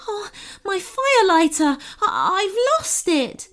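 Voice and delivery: high, stammering goblin in dismay; high-pitched storybook distress. A narrator's reading. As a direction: wail it in a high, upset goblin voice. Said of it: "said the goblin in distress".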